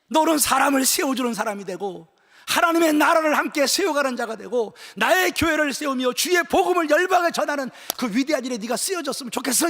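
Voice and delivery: preacher voicing Jesus's charge in forceful phrases; impassioned commissioning. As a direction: proclaim a great mission, driving each phrase.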